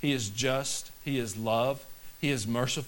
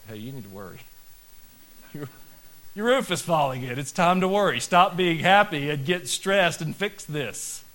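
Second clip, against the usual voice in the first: louder, rising exasperated outburst; mock scolding; 5 semitones higher, 7 dB louder than usual. Pastor acting out scolding a carefree person, loud exasperation. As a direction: snap them out of it, roof is caving in.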